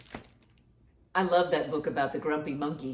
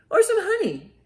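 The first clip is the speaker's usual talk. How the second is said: high animal voice; 14 semitones higher, 6 dB louder than usual. Acted. Animals pile on suggestions.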